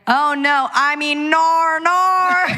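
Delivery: high, exaggerated Aussie "nor"; Australian accent. Guest previews tonight's stage slip into Aussie, hammed-up Australian accent. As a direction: slide into hammed-up Australian vowels. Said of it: "I'm literally gonna be like".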